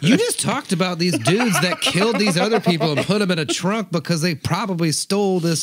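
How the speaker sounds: high, loud disbelieving rant; incredulous outburst. Retold or imitated. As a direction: blurt it out in disbelief, laughing. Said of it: "And I'm like".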